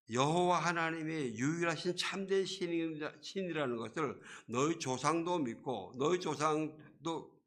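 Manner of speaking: preacher voicing a mild scolding; God's rebuke. Preacher as God reminding the king who protected him, reproving. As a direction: press each point as a reproachful question. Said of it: "하나님이 이렇게 꾸짖으시는 거예요".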